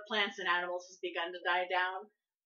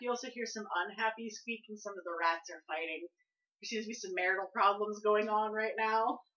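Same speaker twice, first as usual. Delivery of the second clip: ordinary talk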